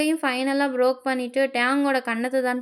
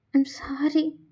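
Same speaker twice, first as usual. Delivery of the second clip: breathy whispered apology; barely-voiced, hushed sorry; much slower than usual. Tae whispering his apology to Jungkook.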